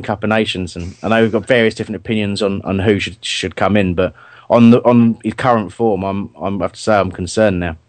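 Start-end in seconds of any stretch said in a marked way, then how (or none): 4.5-7.8 words catching in the throat; slight choking. Real, not acted. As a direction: speak through a small choke. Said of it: "just choking a little bit".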